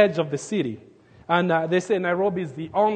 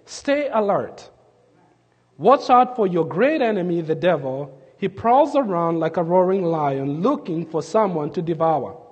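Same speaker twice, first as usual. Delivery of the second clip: scripture reading. Shown as a demonstration. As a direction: read the verse out to the congregation, measured. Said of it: "Here's what he says".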